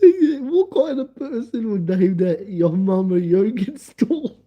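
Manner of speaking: laughing while asking; helpless laughter. Real, not acted. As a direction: near tears from laughing.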